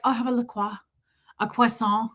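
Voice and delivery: imitating a pretentious half-French accent; lightly Frenchified order, mocking; affected French. Host mocking Americans ordering drinks, affected French accent. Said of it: "Don't suddenly be French or Swedish".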